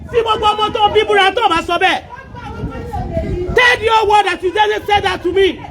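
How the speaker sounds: furious, insistent yelling; angry accusation. Real, not acted. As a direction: hurl accusations in full anger. Shouting accusations of theft in quarrel.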